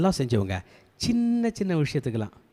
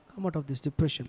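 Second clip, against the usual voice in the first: much softer repeat of a command; hushed echo; 9 dB quieter, much slower than usual. Acted. (மெதுவான குரலில் திரும்பச் சொல்லி)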